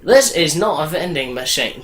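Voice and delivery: put-on failed Australian accent, sounding British. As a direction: aim at Australian, land nearer British. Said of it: "That sounds more British".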